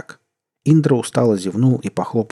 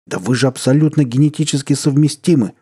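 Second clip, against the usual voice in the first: exclaiming; 5 semitones higher, 4 dB louder than usual. A narrator's reading. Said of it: "вскричал парень".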